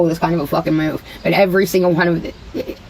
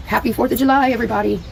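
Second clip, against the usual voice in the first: high, bouncy holiday greeting; singsong greeting; 5 semitones higher, faster than usual. Real, not acted. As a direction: sing it out to the whole chat. Cheery holiday greeting to viewers.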